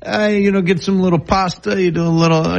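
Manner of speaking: light put-on New York Italian cook; New York accent. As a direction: talk food in a mock New York accent. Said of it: "that was more of a, a New York accent".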